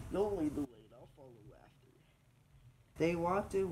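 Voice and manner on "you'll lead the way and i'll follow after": gruffalo voice. Acted. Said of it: "bursting with laughter".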